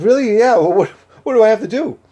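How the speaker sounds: high, fast, excited questions; quoting the family's delighted rush of questions; mock-eager family, fast and high. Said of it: "The family was too".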